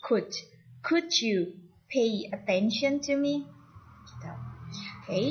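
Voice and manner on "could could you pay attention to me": "could" as "kud", then the slow full question; silent L. Shown as a demonstration. Teacher repeats for learners, "could" with silent L, slowly. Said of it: "jadi langsung could".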